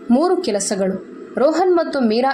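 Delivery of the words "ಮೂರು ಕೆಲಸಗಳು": slow, deliberate ಮೂರು ಕೆಲಸಗಳು, each word distinct; very clear words. A narrator's reading. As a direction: spell it out slowly and firmly. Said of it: "ನಾನು ಬಹಳ ಸ್ಪಷ್ಟ ಶಬ್ದಗಳಲ್ಲಿ ಹೇಳಿದೆ".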